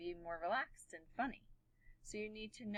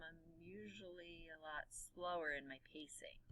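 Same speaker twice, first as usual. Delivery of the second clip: calm slower demo; 8 dB quieter than usual. Shown as a demonstration. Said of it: "when I'm home and I'm nice and calm".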